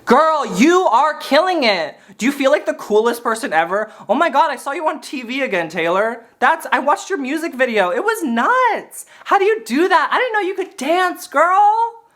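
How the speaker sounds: mock-gushing, pitch climbing toward the end; gushing friend. Jealous friend flattering a pop star, mock gushing. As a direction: gush with rising, put-on excitement. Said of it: "I'd be that friend who's like".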